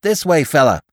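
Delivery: high, urgent call to a companion; bellowing. A narrator's reading. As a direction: call him over urgently. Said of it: "Marnigan bellowing just behind him".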